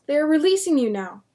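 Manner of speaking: loud high call. Acted. William reassuring his captive family, loud call. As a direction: shout reassurance across the yard. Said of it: "he called".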